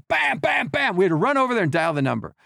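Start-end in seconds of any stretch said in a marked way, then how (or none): 0.1-1.0 much higher, punchy imitated bangs; mock slamming noise. Storyteller imitating the quarterback at the phone, much higher. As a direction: bang out each bam like a slammed phone. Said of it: "look at us and go".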